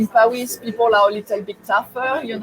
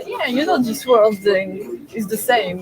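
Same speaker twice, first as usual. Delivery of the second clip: put-on Australian accent; 3 semitones lower than usual. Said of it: "taking my best Australian accent".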